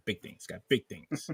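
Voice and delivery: lightly voiced Roger from American Dad; a hint of Roger's voice. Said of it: "No, Roger".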